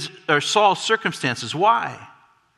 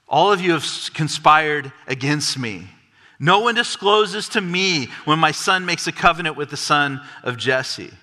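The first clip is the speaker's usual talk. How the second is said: mildly hammed-up whine, self-pitying; a touch of a petulant king's whine; exaggerated whining. Saul accusing his servants, in a lightly exaggerated whine. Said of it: "Forgive the exaggerated intonation".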